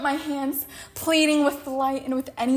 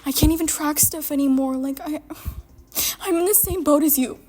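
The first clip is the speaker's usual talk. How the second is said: mocking Mal; 3 semitones higher than usual. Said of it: "It's like".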